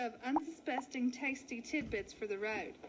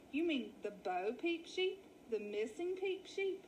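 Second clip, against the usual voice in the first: put-on chatty old ewe. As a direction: greet the newcomers like a nosy hostess. Betty questions them.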